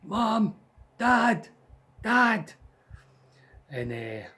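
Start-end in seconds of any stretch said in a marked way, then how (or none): 0.0-2.5 high urgent call for mum and dad. Retold or imitated. Child calling parents in the night, loud frightened call. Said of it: "Straight away, didn't mess about".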